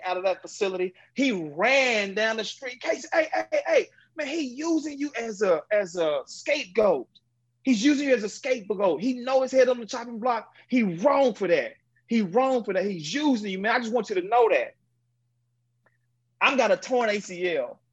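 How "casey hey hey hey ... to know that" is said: urgent warning. Retold or imitated. Teammate runs after him, warning.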